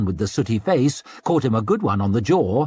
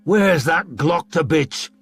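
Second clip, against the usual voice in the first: mob shouting; 7 semitones higher, 3 dB louder, slower than usual. A narrator's reading.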